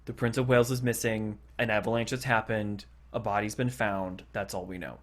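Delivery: a secretary's sombre report, fading out; grave announcement. Retold or imitated. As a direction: deliver bad news gravely, trailing away. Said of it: "the secretary actually goes".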